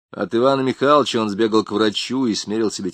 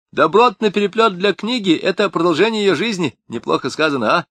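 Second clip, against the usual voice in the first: higher, pleased-with-himself chatter; lightly voiced smug crook; boastful Tamarkin; 6 semitones higher, 3 dB louder than usual. A narrator's reading. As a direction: show off the workshop proudly.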